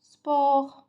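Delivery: J'aime le sport drawn out very slowly, sport falling; teacher modelling at a crawl; slow model sentence. Shown as a demonstration. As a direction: spell it out slowly for the class to repeat. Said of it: "on dit quoi?".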